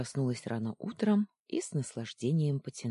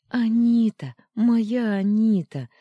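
high, loud overjoyed call; joyful cry; 9 semitones higher, 10 dB louder than usual. Acted. Девочка радостно зовёт любимую тётю, громко и высоко. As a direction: cry out her name in relief. Girl greets beloved aunt.

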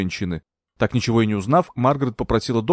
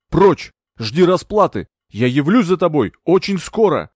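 a delirious man cursing the woman at his bed; raging curse; 3 semitones higher, 4 dB louder than usual. Acted. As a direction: hurl threats at her, louder and louder. Delirious Anthony curses Margaret.

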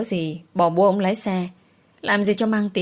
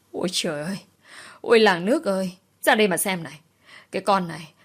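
theatrical village wail, calling the neighbours; wailing lament; faster than usual. Acted. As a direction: cry out to the whole village for help. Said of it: "bà Thị vừa gào vừa múa tay múa chân". (kêu gào ăn vạ)

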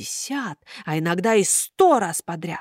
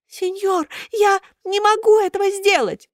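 high thin puppet voice; pleading puppet; 13 semitones higher, 3 dB louder than usual. A narrator's reading. Buratino protests to Karabas, high thin voice.

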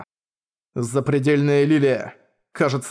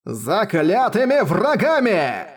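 slow, higher, hate-filled cry; 6 semitones higher, much slower than usual. Acted. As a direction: spit out every word with burning hatred. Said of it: "полный жгучей ненависти голос".

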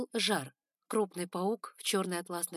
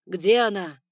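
thunders the question, much louder; thundering; 14 dB louder, slower than usual. A narrator's reading. Spider lord demanding where the girl is, thundering. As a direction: boom it out like a demand. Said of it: "прогремел".

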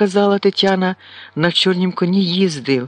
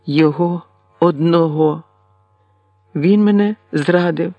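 bitter outburst. A narrator's reading. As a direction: let the betrayal break through. Tetiana's bitter outburst continues.

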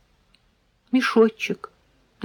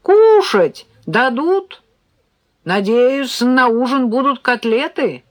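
bright, much higher and louder hungry call; cheerful; 6 semitones higher, 5 dB louder, slower than usual. A narrator's reading. Son arriving home asking about dinner, cheerful call. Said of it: "бодрый голос Серёжки".

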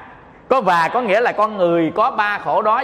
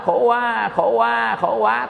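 put-on baby cry as words; 4 semitones higher, slower than usual. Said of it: "nít nào trên thế giới vừa sanh ra".

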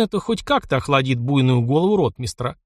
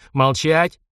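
short growled order, less of a shout; a touch of a growl; 2 semitones higher than usual. Acted. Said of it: "рыкнул он". (полковник рыкнул, обрывая ротмистра)

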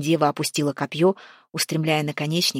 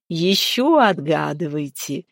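slow, teasing giantess voice; fiery maiden urging the travelers on; 3 dB louder, slower than usual. A narrator's reading. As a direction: relish the demand. Fiery giantess demands more riddles.

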